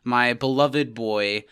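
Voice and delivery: slow, mock-tender address. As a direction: stretch it out fondly. Overly fond address to friend.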